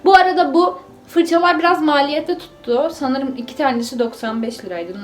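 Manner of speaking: talking around a toothbrush; muffled by brushing; while brushing teeth. Real, not acted. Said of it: "keşke diş fırçalarken konuşmasaydım".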